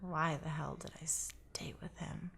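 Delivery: breathy whisper to herself; whispered self-question. Real, not acted. Herself, reliving why she stayed, in a whisper. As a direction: ask it under your breath, almost to yourself.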